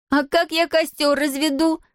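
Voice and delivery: high-pitched exasperated yell; girl's mild, indignant yell. A narrator's reading. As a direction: yell after someone in protest, high. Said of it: "заорала Зия".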